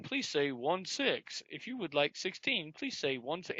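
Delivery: slow, prim automated voice; mock recording voice. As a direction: drag it out like a phone robot. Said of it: "and then she".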